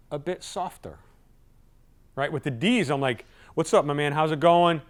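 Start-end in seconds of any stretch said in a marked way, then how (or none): 3.5-4.8 firm, forceful hello; no-nonsense greeting to a dominant client; direct greeting. Shown as a demonstration. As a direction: greet him straight and businesslike. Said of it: "I can be forceful. The tone's direct".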